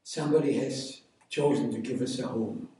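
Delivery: high, loud, bursting with news; excited cousin. Retold or imitated. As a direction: call his name out in sudden joy. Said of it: "My cousin excitedly came up to me".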